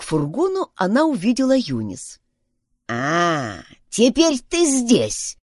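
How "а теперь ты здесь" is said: low drawn-out 'ah', then rising slowly; exclaiming. A narrator's reading. Old woman spots the staring girl by her van, exclaiming. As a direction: pounce on the unwelcome discovery. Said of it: "воскликнула она".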